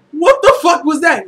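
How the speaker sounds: incredulous mock outburst; mock disbelief. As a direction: voice a character's silent outrage, exaggerated. Voicing character's shocked look.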